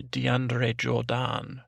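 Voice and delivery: drawn-out French-style name; mock French. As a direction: stretch the name with a French ending. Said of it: "I think is what they say".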